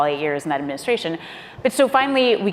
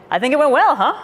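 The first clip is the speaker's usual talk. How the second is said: much higher and louder with a laugh; pleased president; 8 semitones higher, 5 dB louder than usual. Retold or imitated. President to staff on the plane, higher and louder, laughing.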